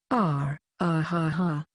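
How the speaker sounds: awkward slow ha ha; pained laugh. A narrator's reading. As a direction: laugh it off uneasily. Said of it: "gave a pained grin and said".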